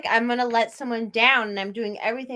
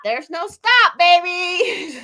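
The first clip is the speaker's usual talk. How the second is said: playful; 6 semitones higher, 6 dB louder, much slower than usual. Retold or imitated. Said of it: "there are these times where it's like".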